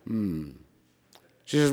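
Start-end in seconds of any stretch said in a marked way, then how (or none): 0.1-0.5 low grumbled hum; imitated grumpy groan. Store owner groaning at his wife's decision, grumpy. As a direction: groan under your breath, imitating a reluctant husband. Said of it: "Frank groaned".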